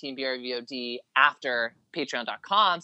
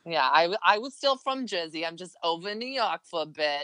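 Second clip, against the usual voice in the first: Jersey accent; 2 semitones higher than usual. Shown as a demonstration. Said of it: "was that a good Jersey accent".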